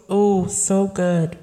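slow, dreamy so good; craving sigh. Real, not acted. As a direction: savor the words like the taste. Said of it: "I'm craving Raising Cane's so".

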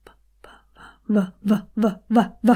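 building V sounds. Shown as a demonstration. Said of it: "Other way around".

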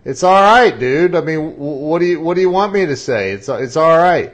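mock-exasperated all right; exasperated insisting. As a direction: push back, a bit defensive. Insisting after being challenged.

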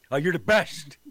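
Gargano impression. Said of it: "can you do Gargano".

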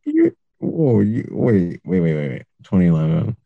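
high, disbelieving realisation; stunned surprise. Real, not acted. Guest realising the host is older, stunned high surprise.

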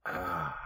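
contented ahh after drinking; satisfied sigh after a sip. Real, not acted. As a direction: sigh of pleasure after swallowing. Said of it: "I'm gonna take another drink".

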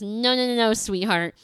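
lightly imitated Southern accent, quick string of no's. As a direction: correct her like a Southern gent, lightly mimicked. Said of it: "a big old Southern accent".

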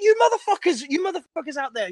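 put-on Indian accent. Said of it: "who sound like this".

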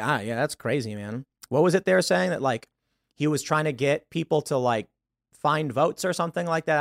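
casual shrug. Shown as a demonstration. Showing how to answer a friend about Trump, easygoing. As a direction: play it cool and noncommittal, man. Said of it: "Here's how I respond".

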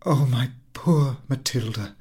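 slow, moved pity; deeply moved. Acted. Friend taking Mathilde's hands, slow and moved. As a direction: say it slowly with pity. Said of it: "deeply moved".

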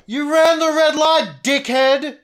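loud, high, drawn-out shout; angry yell. Retold or imitated. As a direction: holler it out the car window. Yelling at rider from car window.

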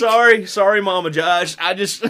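loud apology giving way to laughter; laughing apology. Real, not acted. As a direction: apologise while starting to crack up. Breaking up laughing while apologising.

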